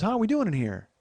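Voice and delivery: cheery bedside voice. Retold or imitated.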